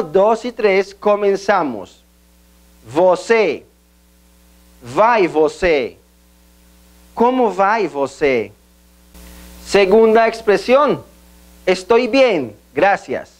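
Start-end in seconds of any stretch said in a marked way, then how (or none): 2.9-8.5 slow, clear, word by word; slow backtracking drill. Shown as a demonstration. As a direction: build the phrase backwards slowly. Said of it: "lo hacemos al mismo tiempo". (backtracking lento)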